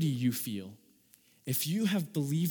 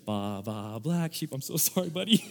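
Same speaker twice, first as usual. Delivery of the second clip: mock apology. Apologizing to the sacrificed sheep.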